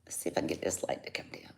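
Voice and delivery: hushed aside while fiddling with the light; whisper. Real, not acted. Seller whispering to herself while fixing the light, quick whisper. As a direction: breathe it under the breath, quick.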